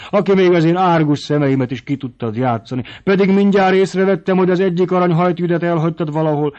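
high, loud outraged mother; heated motherly rant, pitch climbing high; indignant scolding. A narrator's reading. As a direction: scold in a rising, rushing tirade. Mother scolds daughter in outburst.

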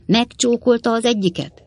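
high-pitched delighted cry; enraptured exclamation. A narrator's reading. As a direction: exclaim it in rapture, voice held high. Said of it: "kiáltott fel, elragadtatva a kis ügyvéd". (elragadtatott felkiáltás)

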